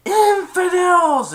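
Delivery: drawn-out furious cave shout; booming cave voice. Retold or imitated. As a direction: roar it like an angry magic cave. The cave thunders at the thieves.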